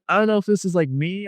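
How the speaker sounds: high, bewildered excitement; excited retelling. Retold or imitated. Telling his friend he is unsure, excited and bewildered. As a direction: pitch way up, trying to take it in. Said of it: "I was excited".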